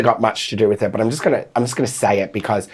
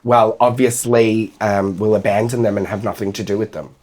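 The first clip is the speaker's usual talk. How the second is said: deadpan sarcasm; 4 semitones lower than usual. Retold or imitated. Sarcastic reply to people asking about gay kids, deadpan. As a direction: deliver the absurd answer straight-faced. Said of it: "I always just respond with".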